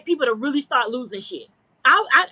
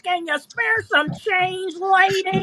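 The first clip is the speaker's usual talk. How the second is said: pleading beggar; 4 semitones higher, slower than usual. Retold or imitated. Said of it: "farmers with a goddamn cup jingling".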